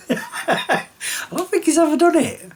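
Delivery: high giggly laughter through the words; laughing. Real, not acted. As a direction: laugh it out while talking. Laughs while talking about pet.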